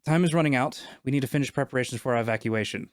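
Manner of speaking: a touch of urgent concern; worried, concerned. Acted. Game master voices the worried first figure in the vision, concerned. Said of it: "worried with a worried, concerned voice".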